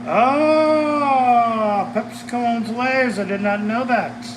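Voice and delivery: high, loud sudden discovery; a genuine oh-wow realization; surprised. Real, not acted. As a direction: caught off guard by the news. Reading a surprising fact.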